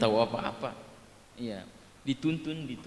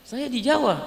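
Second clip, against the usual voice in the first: caller's reply; 10 semitones higher, 4 dB louder than usual. Retold or imitated. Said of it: "Saya bilang".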